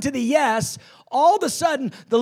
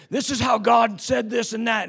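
mock harsh. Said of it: "it sounds so harsh".

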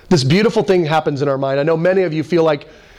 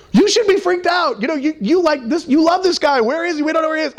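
high, pushy voice of alarmed friends; mock scolding friends; 11 semitones higher than usual. Friends accusing the calm preacher, high and insistent. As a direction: pitch jumps high as friends scold him.

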